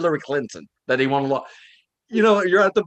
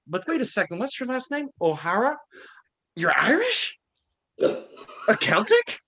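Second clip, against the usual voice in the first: raised, haughty mock bigot; hammed-up racist who looks down on him; over-the-top racist; 7 semitones higher than usual. To racist white people, a mock superior bigot. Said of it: "I become over racist".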